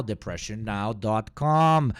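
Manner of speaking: slow, loud announcer read of the address; mock announcer. Streamer mocking the show's web address, drawn-out ad read. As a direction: stretch out "depression now dot com" like an ad. Parody of news show intro.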